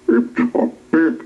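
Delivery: high, amazed little squeak; amazed goblin. A narrator's reading. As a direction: sound small and amazed. Goblin marvels.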